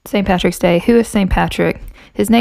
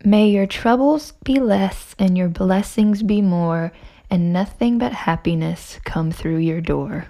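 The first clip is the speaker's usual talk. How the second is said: reciting a blessing; 5 dB quieter, slower than usual. Acted. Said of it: "Start us off with an Irish blessing".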